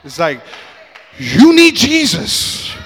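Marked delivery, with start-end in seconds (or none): 1.2-2.7 mock reply. Friend's deadpan reply in skit.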